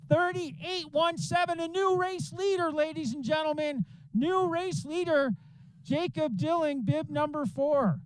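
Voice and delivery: high, thrilled call of a new leader; excited call. Real, not acted. New race leader called out.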